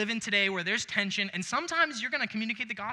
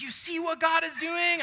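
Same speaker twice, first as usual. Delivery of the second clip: mock bold shout, higher and louder; bold proclamation; 10 semitones higher, 4 dB louder than usual. Preacher imitating a bold Peter, mock shout. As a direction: proclaim it like a fearless apostle. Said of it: "Peter here boldly going like".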